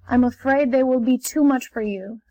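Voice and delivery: ordinary delivery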